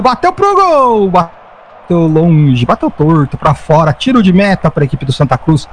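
rising, quickening football commentary; live play-by-play. Acted. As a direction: build up with each attack.

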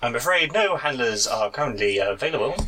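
lightly voiced canned reply; polite recorded system voice; automated voice. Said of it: "this is very much an automated voice".

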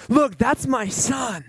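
high, stretched-out boasting; acting out God's delighted pride; excited proud father. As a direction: boast about your boy, savoring each phrase. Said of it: "he's just so excited".

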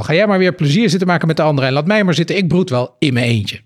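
wife sending her husband off, huffy; fast peevish rant. Acted. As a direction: rattle it off in a huff. Wife's angry outburst continues.

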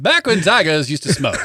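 put-on old-fashioned storyteller voice; old-timey voice. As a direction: say it like an old-timer. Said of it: "when you do it in the old-timey voice".

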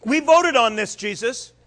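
loud, high insistence; proud of their unanimous vote; smug disciples. Retold or imitated. Disciples telling Jesus about their vote, loud and high.

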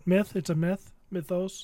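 myth with a short "i", then Mythos as MITH-ohs; explaining pronunciation. Shown as a demonstration. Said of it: "How do you say it?".

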